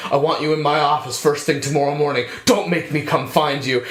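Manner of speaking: retold detective. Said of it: "he walks out and he's just like".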